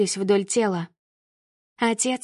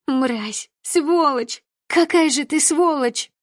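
furious cursing; 4 semitones higher, slower than usual. Acted. Daughter cursing the father who sold her, building anger. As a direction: spit the insults at him.

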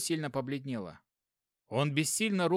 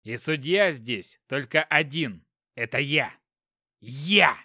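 loud proud shout; 6 dB louder, slower than usual. Acted. Inspector shouting his authority.

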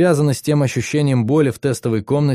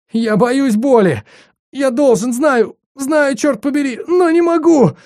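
very high, slow words broken by sobs; a terrified young man crying, far higher and slower; sobbing in fear; 14 semitones higher, 4 dB louder than usual. Acted. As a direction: choke out the words through sobs. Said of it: "Слова прерывались всхлипами".

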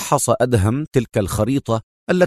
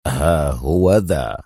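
broad smile; 8 semitones lower, much slower than usual. A narrator's reading. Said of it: "واتسعت ابتسامته وهو يجيب".

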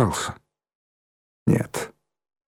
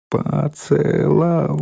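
"поцеловал" drawn out slowly, higher; syllable by syllable; 4 semitones higher, much slower than usual. A narrator's reading. Girl marvels to her grandfather at being kissed, syllable by syllable. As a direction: stretch each syllable of "поцеловал". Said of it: "произнесла Ленка по складам".

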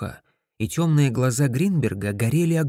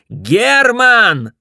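high, loud shout of his name; 10 semitones higher, 9 dB louder than usual. Acted. Wife shouts at her husband to stop. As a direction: yell his name to cut him off. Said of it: "закричала она".

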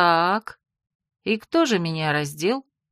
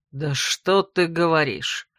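slow, lower mock growl; mild growl; 4 semitones lower, slower than usual. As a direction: drag it out with a sarcastic growl. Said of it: "прорычал первый голос".

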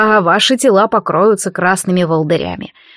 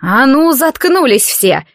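angry command; 5 semitones higher, slower than usual. Acted. Mother silencing the daughters.

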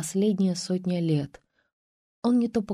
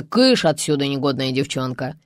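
louder gruff shoo; shooing away; 2 semitones lower, 4 dB louder than usual. Acted. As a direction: chase her out loudly. Uncle shooing niece away. (громко прогоняет)

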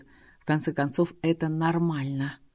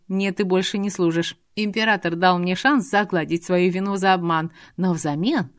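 angry rant; 3 dB louder than usual. Acted. Dragoness rants at her maid.

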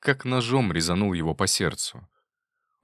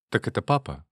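put-on lisping child; 3 semitones higher than usual. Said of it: "залепетала девочка картавя".

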